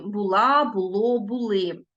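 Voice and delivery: була, було, були stressed on final syllable; stress on endings. Shown as a demonstration. Teacher shows pupils ending stress, stressing last syllable of була, було, були. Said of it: "наголос падає на закінчення".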